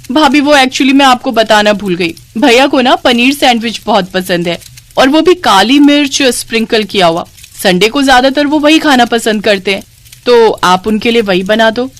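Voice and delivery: casual, chatty sister-in-law; lightly voiced sister-in-law. Sister-in-law suggests a sandwich for her brother, casually chatty. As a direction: make an offhand request as the sister-in-law.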